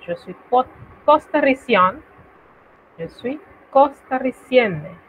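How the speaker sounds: teacher demo; French model phrase. Shown as a demonstration. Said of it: "Si usted es costarricense".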